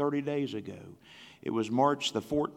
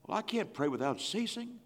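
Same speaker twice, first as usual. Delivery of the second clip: softer, higher excuse voice; a hint of whiny objector; mock objector; 3 semitones higher, 6 dB quieter than usual. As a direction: play the reluctant churchgoer. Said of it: "Why not?".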